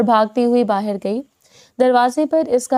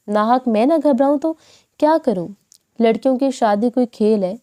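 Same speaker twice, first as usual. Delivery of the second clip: irritated. Acted. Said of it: "جھنجھلا کر کہا".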